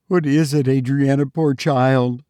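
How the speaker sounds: lightly voiced anxious mother; a hint of a fretful mother; worried mother. A narrator's reading. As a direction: ask with mild concern.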